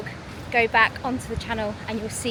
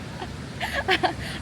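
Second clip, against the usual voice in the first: pained laugh; 7 semitones higher, 4 dB quieter than usual. Real, not acted. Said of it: "my feet are burning on the sand".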